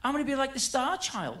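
lightly imitated high ridiculous rock star voice; a hint of a camp rock singer, fast; a rock singer's voice. To the band, a touch of a rock singer's voice. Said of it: "his ridiculous rock singer voice".

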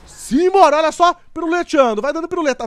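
excited cheer. Real, not acted. Car starts spinning stunts.

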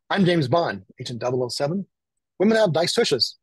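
lightly acted James Bond, lifting on the last phrase; a hint of mock-bold secret agent; password declaration. Client announcing himself at the door with the password, lightly acted declaration.

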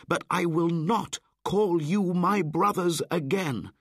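high, loud defiant speech; angry boy. Acted. Mowgli defying the wolves with fire, angry. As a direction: hurl it at the pack. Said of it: "He was very angry and very sad".

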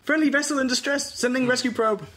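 high, loud machine alert; alarm announcement. Acted. The station computer sounding the alarm loudly. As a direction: blare it like a siren.

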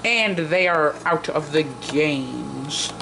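slow, measured elimination call; solemn game announcer. Pretend. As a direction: declare them out, stretching the words.

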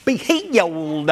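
drawn-out faith-healer cry; slow, stretched televangelist healing command; Ernest Angley. Retold or imitated. Preacher imitating a faith healer at work, mock healing cry. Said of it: "do an Ernest Angley".

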